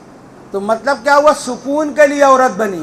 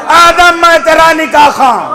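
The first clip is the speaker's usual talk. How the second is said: voice of the Prophet. Acted. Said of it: "سرور کائنات فخر موجودات نے فرمایا".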